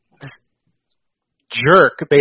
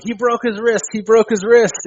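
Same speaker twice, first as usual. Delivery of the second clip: imitating a thick British accent, much higher; Bulldog's thick accent; 9 semitones higher than usual. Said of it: "in that thick accent".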